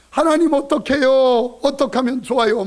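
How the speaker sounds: a hammed-up weeping wife begging God; mock tearful prayer. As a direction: plead with God as if in tears. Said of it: "막 우는 거예요".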